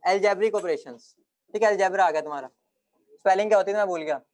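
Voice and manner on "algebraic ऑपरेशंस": slow dictation. Shown as a demonstration. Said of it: "अगली बात लिख लो".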